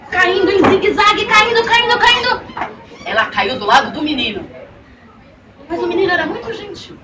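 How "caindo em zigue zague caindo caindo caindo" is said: falling pitch play. A narrator's reading. Falling from the flying bicycle.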